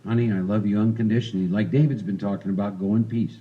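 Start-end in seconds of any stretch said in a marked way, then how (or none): 0.0-1.5 mildly serene, slightly lowered voice; very calm. Acted. Spiritual woman speaking to her husband, very calmly. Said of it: "who very calmly would say". 2.8-3.4 understated, serene voice; very calm. Acted. Spiritual woman sending her husband off, very calmly. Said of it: "who very calmly would say".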